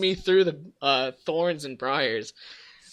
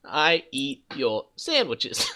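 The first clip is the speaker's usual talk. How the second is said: slow monster voice; much slower than usual. Pretend.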